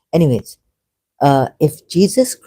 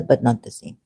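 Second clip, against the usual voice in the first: ordinary talk, nothing marked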